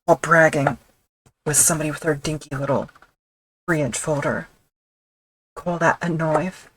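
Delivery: bragging in a hammed-up Australian accent; bad Australian accent. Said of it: "with a horribly done Australian accent".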